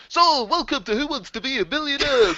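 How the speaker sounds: high, loud ghostly game show host; haunting voice. Retold or imitated. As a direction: boom it out like a phantom quiz host. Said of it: "a ghostly voice of Chris Tarrant".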